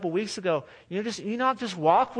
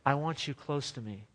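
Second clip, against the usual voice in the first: soft voice of God; 3 semitones lower, 6 dB quieter than usual. Pretend. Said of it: "So God whispers 'cause he's like".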